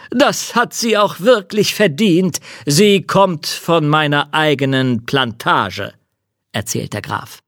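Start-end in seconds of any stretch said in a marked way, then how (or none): 0.1-5.9 count voice. Acted. Count speaking.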